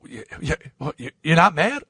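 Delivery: mock stammer, unsure and halting; shaken, stammering disbelief. Imitating Howard after being slammed against the wall, nervous stammer. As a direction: stumble over it, as if barely daring to ask.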